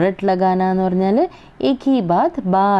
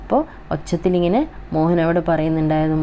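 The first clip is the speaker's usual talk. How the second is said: normal talking voice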